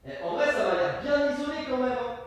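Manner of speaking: high, faint voice from the next room; distant, muffled high-pitched call; muffled through wall. Real, not acted. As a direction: call from behind a closed wall. Talking from behind a wall.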